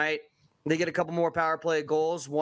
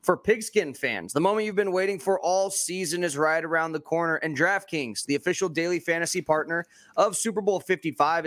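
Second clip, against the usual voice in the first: upbeat ad read; booming prize announcer. Acted. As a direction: sell the prize giveaway with energy. Sponsor ad read.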